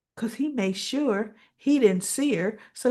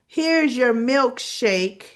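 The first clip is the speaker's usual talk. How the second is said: slow, raised announcement, mimicking the waitress; pointed interruption; 4 semitones higher, 5 dB louder, slower than usual. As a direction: break up the kiss with deliberate emphasis. Waitress interrupts a kiss loudly.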